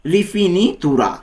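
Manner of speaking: very slow "rifinitura", every syllable drawn out; slow model word. Shown as a demonstration. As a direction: stretch the word for the learner. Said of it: "এর Italian কী হবে?".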